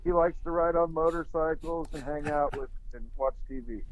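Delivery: muffled, underwater-sounding line; bad connection, like speaking underwater. Real, not acted. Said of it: "You sound like you're underwater".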